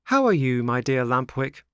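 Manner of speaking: bright opening jump, pretending all is well; smiling greeting. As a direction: greet a friend with feigned cheer. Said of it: "he asked with a smile".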